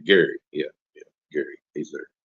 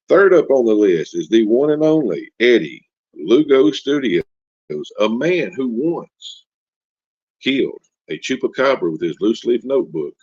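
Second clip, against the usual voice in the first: big, higher announcer build-up; hyped announcer intro; 3 semitones higher, 3 dB louder than usual. Acted. Host introducing the one and only guest, hyped announcer. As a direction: introduce them like a headline act.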